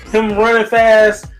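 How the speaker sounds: normal talking voice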